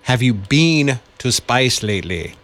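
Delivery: hesitant copy of an Australian accent; weakly faked Australian accent; attempted Australian accent. Shown as a demonstration. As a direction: repeat the coach's Australian accent phrase. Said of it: "I want you to do this".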